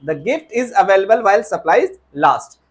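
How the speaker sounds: slow, careful correct sentence; slow corrected version. Shown as a demonstration. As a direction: model the right sentence slowly.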